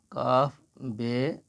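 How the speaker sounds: very slow, each letter name stretched; letter names drawn out. Shown as a demonstration. Teacher slowly spelling letters for a student. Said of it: "لکھنے کا طریقہ یہ ہے".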